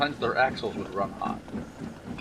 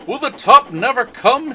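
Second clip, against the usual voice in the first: straining; 13 semitones higher, 12 dB louder than usual. Acted. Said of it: "he thought".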